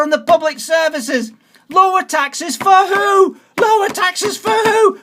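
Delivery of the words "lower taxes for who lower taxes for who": indignant challenge. Real, not acted. Angry voter challenging the party's tax promise, raised voice. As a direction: hurl the question back at the politicians.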